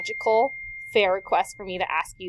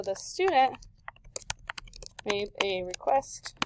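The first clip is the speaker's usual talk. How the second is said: 1 dictation pace; 5 dB quieter, slower than usual. Shown as a demonstration. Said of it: "write our sentence".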